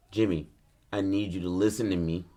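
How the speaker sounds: low, stern retold warning; acted firm talking-to, kept contained; not nice tone. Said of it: "This isn't in a nice tone either".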